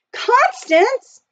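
high, loud call of recognition; exclaiming. A narrator's reading. Jack hails his other sister, exclaiming. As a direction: call out to her in sudden recognition. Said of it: "Jack exclaimed".

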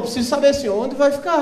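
lightly imitated Portuguese official; comic formal European Portuguese; mock European Portuguese. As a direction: ask in a put-on European Portuguese accent. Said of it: "só entende se falar assim".

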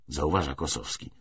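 ordinary delivery

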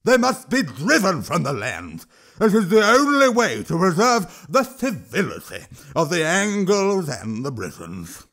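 high, loud troll rant slowing at the end; a troll roaring his demand; loud troll shout. Acted. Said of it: "Throch shouted".

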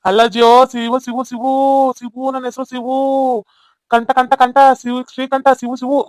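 name called out with drawn endings; patient, sing-out correction of a misheard name; repeating for the hard-of-hearing. Acted. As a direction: repeat the name insistently to someone who mishears. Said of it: "ಅವ್ರಿಗೆ ಸರಿಯಾಗಿ ಮಾತ್ ಕೇಳ್ಸಕ್ಕಿಲ್ಲ".

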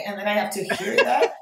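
normal talking voice

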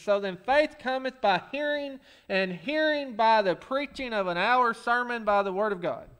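deadpan slipped-in words in the verse; mock misquote of the verse; joking misquote. Shown as a demonstration. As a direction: read it with a sly added phrase. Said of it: "most of that was right".

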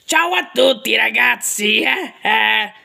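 lightly voiced cat greeting, barely changed; a hint of Tom the cat saying hi; mild cartoon cat impression. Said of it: "Quella di Tom fa così".

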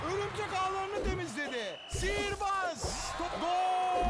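screaming football commentator. Acted. Praise shouted in game commentary.

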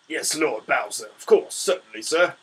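mock groveling minion; slow, fawning yes-man reply; hammed-up eager servant answering his king; imitating a servile Larry. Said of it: "He doesn't talk like that".

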